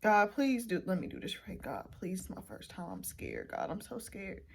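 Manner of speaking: whispered prayer to God before bleaching; nervous prayer. Real, not acted. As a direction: pray under your breath, frightened. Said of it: "Say a quick prayer".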